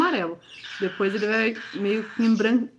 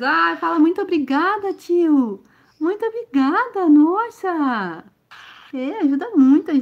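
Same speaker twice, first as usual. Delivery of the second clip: excited thanks; 8 semitones higher, 6 dB louder, slower than usual. Real, not acted. Agradecendo doação em nome do filhote.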